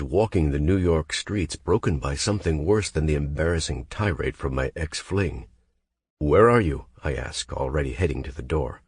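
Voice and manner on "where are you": louder, urgent demand. Acted. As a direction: press her for an answer. Hero urgently asks on phone.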